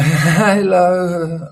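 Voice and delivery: a mock half-dead hello to clients; imitating himself as a sleep-deprived zombie; zombie greeting. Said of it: "I was like a zombie".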